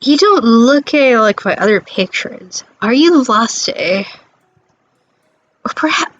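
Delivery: hammed-up fake French accent as a snooty gallery owner; a mock French gallery owner greeting a customer; bad French accent. Gallery owner sizing up a lost visitor, in a hammy fake French accent. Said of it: "she's trying to do a bullshit French accent".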